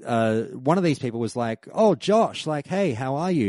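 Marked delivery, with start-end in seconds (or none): 1.7-3.5 high, bubbly mock-friendly hello; gushing greeting. Greeter welcoming Josh at the event, high and gushing. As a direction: play the overly friendly greeter.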